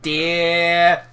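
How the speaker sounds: slow JFK-style store announcement. Retold or imitated. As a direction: supermarket announcement as JFK, lightly done. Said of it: "I did a J F K voice once".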